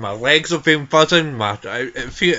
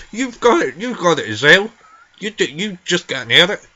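higher-pitched indignant retort; indignant accusing; 5 semitones higher, 3 dB louder than usual. Acted. Granny arguing over who has the cold, indignant and accusing. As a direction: throw the blame back, pitched up.

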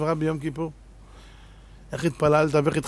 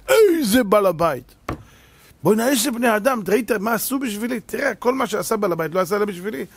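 gushing guest; 5 semitones higher than usual. Retold or imitated. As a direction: rave about the host's generosity. Guest gushing about host. (אורח נלהב משבח את המארח)

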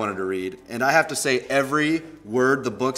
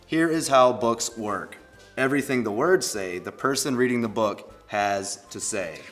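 slow, deliberate storybook reading; story read-aloud; slower than usual. Acted. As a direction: read it out slowly and plainly to kids. Reads story to mascot.

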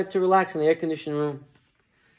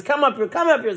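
high, urgent preacher summons; 10 semitones higher than usual. Acted. Preacher summons Sam to the stage, high and eager. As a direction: call him up from the back. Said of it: "The preacher then sees Sam".

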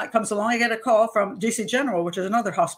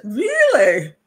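skeptical really; 2 semitones higher, 7 dB louder than usual. Retold or imitated. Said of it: "and I said".

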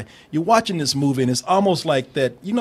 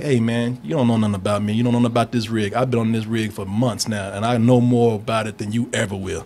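Wahlberg quote; 7 semitones lower than usual. Retold or imitated. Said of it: "He's like".

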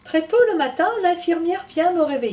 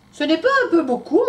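mum asking; 8 semitones higher, 9 dB louder than usual. Acted. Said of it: "me demande maman".

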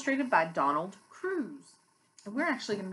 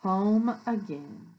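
slow storybook ending; read-aloud to children; 4 dB louder, slower than usual. A narrator's reading. Teacher reads the buses' return home, slow read-aloud. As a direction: draw the words out to close the story. Reading picture book aloud.

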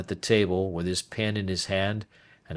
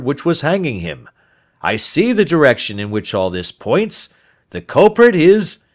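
rising excitement, getting louder to the end; a friend breathless with admiration; a touch of mounting eagerness; eager Watson; 5 semitones higher, 6 dB louder than usual. Acted.

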